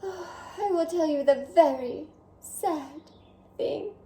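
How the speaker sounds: a hint of a vain French snail, chatty; lightly voiced French snail. Snail Escargot chatting with the reader, lightly French. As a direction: play the charming snail talking to the reader.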